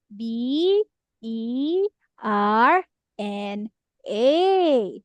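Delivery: letter by letter, each one separate; spelling out letters. Shown as a demonstration. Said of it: "For example, teacher's Berna's name".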